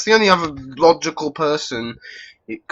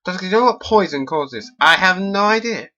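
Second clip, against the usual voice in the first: stork doctor; 4 semitones higher than usual. Acted. Doctor voiced in dialogue.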